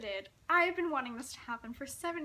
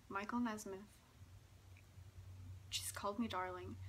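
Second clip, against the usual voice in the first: hushed, breathless whisper of disbelief; inner whisper; 2 semitones lower, 8 dB quieter than usual. Retold or imitated. Starstruck fan to herself, whispering in disbelief. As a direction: whisper it like a secret you can't believe. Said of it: "and my brain was like".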